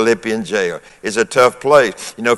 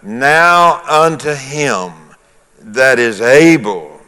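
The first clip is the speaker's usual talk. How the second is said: "Now unto him that is able" drawn out slowly; slow, deliberate scripture emphasis on "Now unto him"; slow, pointed reading; slower than usual. Shown as a demonstration. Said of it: "Notice, notice how".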